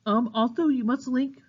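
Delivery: yawning mid-word. Real, not acted. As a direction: say it through a yawn. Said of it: "sorry, I'm yawning a bit here".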